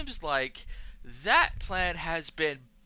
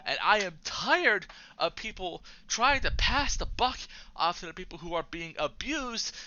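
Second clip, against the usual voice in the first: angry rant; 4 semitones higher than usual. Real, not acted. Ranting to viewers about a rigged system, angry. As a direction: let the fury build to bullshit. Political rant against the rich.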